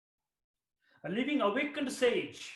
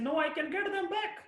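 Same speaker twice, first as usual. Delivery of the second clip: insistent shout; 9 semitones higher than usual. Acted. Shams insists to Rumi.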